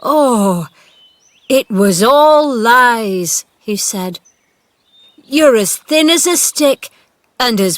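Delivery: put-on loud, slow, choked-up old man; tearful. A narrator's reading. Gardener weeping over the boy, tearful. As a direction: speak through tears of relief. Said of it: "tears ran down his cheeks".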